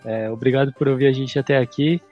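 stuffy nose, nasal voice; blocked nose. Real, not acted. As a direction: talk through a blocked nose. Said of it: "meu nariz tá entupido".

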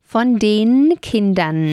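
slow, careful Von den Kindern; correcting the case. Shown as a demonstration. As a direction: stretch out den Kindern, the n at the end clear. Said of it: "Keins von der Kinder".

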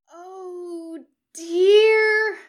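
high, rising loud Oh dear; startled cry. A narrator's reading. Angel popping into the circle, high startled cry. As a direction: yelp in alarm as you land.

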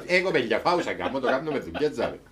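magician chatting in broad Cypriot dialect; casual Cypriot Greek accent. Retold or imitated. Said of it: "Στα κυπριακά, δηλαδή".

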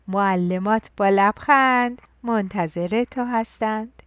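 put-on rhythmic, sing-song poem reading to children; bright nursery rhyme for the first school day; poem recital.

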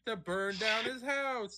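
high-pitched parody of a TV reporter; hammed-up field reporter delivery; sideline reporter. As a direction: overdo the on-the-scene report, punching mid-sentence words. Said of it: "that's how every sideline reporter fucking talks".

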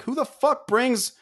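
high, drawn-out incredulous question; exasperated retold outrage; enraged disbelief. Patron seeing toy chest outside brewery, exasperated disbelief. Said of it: "I was enraged".

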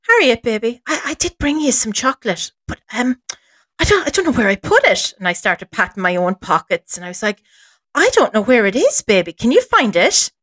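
put-on lilting, playful baby-talk; coaxing a child. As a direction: play innocent, cooing to a small child.

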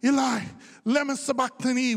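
loud, high cry of anguish; Jesus. Acted. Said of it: "Jesus cried out in a loud voice".

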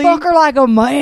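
lips held up by braces. Retold or imitated. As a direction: talk with retainers in. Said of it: "said it with Invisalign in".

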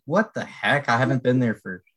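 exaggerated puzzlement, retelling it; baffled self-quote. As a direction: act out being baffled at yourself. Acts out own baffled reaction.

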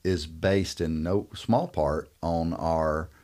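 measured, emphatic repeat, easing off at the end. Shown as a demonstration. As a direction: say it again slowly for the listeners. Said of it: "May want to say that again, slower".

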